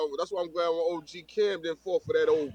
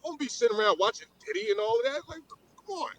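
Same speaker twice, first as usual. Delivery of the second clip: mock high voice; 7 semitones higher, 4 dB quieter than usual. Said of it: "he said".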